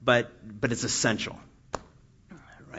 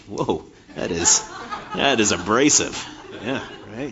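laughing at the glare. Real, not acted. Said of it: "You're trying to give me a tan up here".

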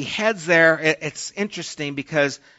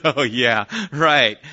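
sarcastic oh yeah, right, said louder; scoffing disbelief; 3 semitones lower, 5 dB louder, slower than usual. Retold or imitated. Sarah scoffing at God's promise of a child, loud and sarcastic. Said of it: "She laughed".

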